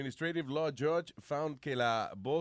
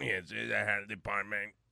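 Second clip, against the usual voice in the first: put-on robot voice, much lower; 5 semitones lower than usual. Acting out a man answering calls at the office, robot voice. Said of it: "por poner voz de robot".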